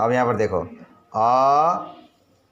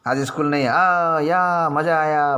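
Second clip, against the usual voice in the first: put-on gleeful kids; 5 semitones higher than usual. Imitating kids glad about no school.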